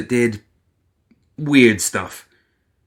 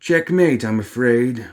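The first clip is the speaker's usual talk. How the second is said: smug; slower than usual. Acted. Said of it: "with his smuggy smugness".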